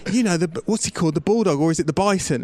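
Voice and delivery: retelling a fan's words in a mock Midlands accent. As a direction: put on a friend's Midlands accent, puzzled. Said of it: "nice Midlands accent there".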